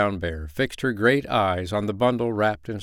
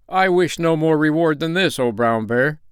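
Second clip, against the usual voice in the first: higher, emphatic gratitude; overjoyed peasant; 6 semitones higher, 4 dB louder than usual. A narrator's reading. Peasant declines more reward from Brown Bear, elated. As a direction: declare it with mild elation. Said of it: "he cried".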